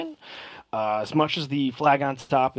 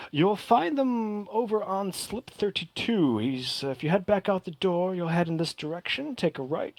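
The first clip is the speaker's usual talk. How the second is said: lightly voiced helpful clerk, higher; a polite dock official giving directions, pitched up; eager harbor master; 5 semitones higher than usual.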